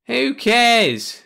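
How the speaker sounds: high, loud scoffing; scornful king. Acted. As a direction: toss it away with contempt. The Cruv dismisses Brad.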